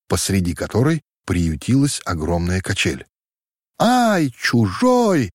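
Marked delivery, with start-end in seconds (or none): 3.8-5.3 put-on high startled shriek of girls; frightened squeal. A narrator's reading. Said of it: "не своим голосом взвизгнули девушки". (испуганный визг, высоко)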